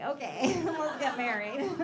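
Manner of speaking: deadpan delight through laughter; laughing mock eagerness. Comedian mocking her own eagerness to marry.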